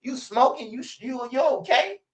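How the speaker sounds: high, laughing disbelief. Retold or imitated. Telling friend he's out of line, high and laughing. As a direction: laugh at how crazy he sounds.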